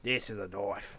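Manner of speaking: low Aussie drawl, lightly voiced; lightly done Australian bushman voice; Australian accent. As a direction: quote it like Crocodile Dundee. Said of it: "Crocodile Dundee quote".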